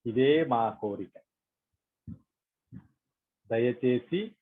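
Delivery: slow, measured prayer with long pauses; prayerful request, spaced out phrase by phrase; meditation prayer. Acted. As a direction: lead the group gently in an unhurried plea.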